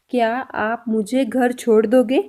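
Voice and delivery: 1 slow. Shown as a demonstration. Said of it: "अभी हमारा sentence ये है कि".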